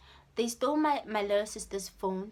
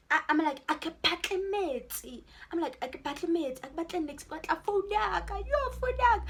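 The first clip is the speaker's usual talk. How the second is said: rising to a desperate high yell; building from upset plea to cry; retold screaming; 5 semitones higher, faster than usual. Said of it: "I'm screaming, guys, I'm crying".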